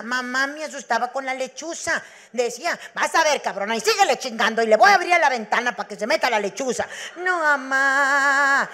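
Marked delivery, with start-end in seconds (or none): 2.9-6.9 louder scolding threat; threatening mother. Retold or imitated. Mother threatens her daughter with the owl at the window. 7.2-8.7 drawn-out frightened plea, louder; scared child. Retold or imitated. Frightened little girl begs her mother not to open the window.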